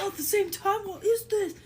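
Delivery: high, loud, baffled creature voice; puzzled monster. Acted. Monster baffled by candy smells, high and puzzled. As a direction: sound bewildered by the smells.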